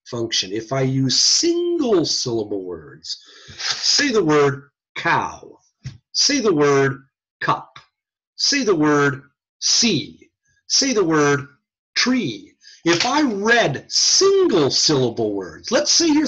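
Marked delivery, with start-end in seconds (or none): 3.6-12.5 slow, measured carrier phrase, then the word; test word delivery. Shown as a demonstration. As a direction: present each test word slowly and separately. Demonstrates speech test word presentation.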